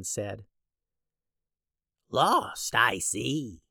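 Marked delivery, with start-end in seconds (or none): 2.1-3.6 soothsayer voice. Acted. Soothsayer character voice.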